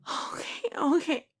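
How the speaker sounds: high, loud rising panic; panicked. Acted. Staring at the mirror, loud frightened panic. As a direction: spiral into fear out loud.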